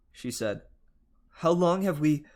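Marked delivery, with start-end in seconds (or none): 1.4-2.3 alarmed. Acted. Sudden panic on waking.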